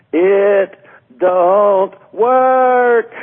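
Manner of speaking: very high, shrill, loud, repeated yelling. Speaker recalls addressing a Word of Faith group, retelling a yell. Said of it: "I started yelling".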